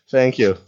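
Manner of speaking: mock unzipping noise with a laugh; zip sound effect. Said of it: "I love the commitment with the sound effect".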